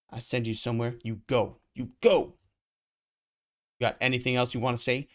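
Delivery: high, loud furious pimp; angry pimp shouting at the girl; pimp yelling. Acted. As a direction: scream her down.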